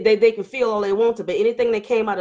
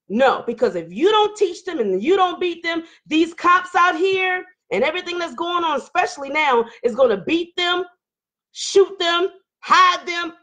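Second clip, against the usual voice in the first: hollering; 5 semitones higher than usual. Real, not acted. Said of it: "I'm gonna stop hollering".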